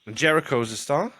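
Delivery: breaking into laughter mid-sentence; high, giggling through the words; laughing. Real, not acted. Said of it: "I couldn't say that without laughing".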